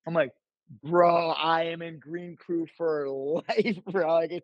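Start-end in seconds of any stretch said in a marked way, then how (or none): 0.8-4.1 laughing through it. Real, not acted. Laughing while quoting himself.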